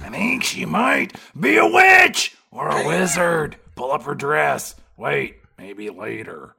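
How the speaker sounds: loud put-on dopey cop, trailing off; mock detective. Detective accusing Sharon Stone, loud then fading mock voice. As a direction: blurt it then drop it.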